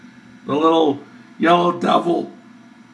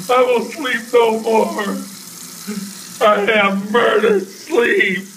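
theatrical recitation; 5 semitones higher, slower than usual. Acted. Macbeth quote, dramatic.

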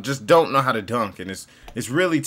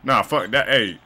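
loud boastful trash talker; Michael Jordan impression; 4 dB louder than usual. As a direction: brag it out like a superstar. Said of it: "that's my interpretation of Michael Jordan".

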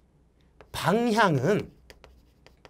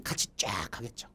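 whispering; 11 semitones lower, 10 dB quieter than usual. Real, not acted. Unvoiced aside while demonstrating.

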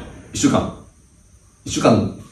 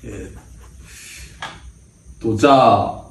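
much lower and softer, deflated; timid; meek senior; 14 semitones lower, 4 dB quieter than usual. Acted. Cowed senior tells the team about practice, timid and subdued.

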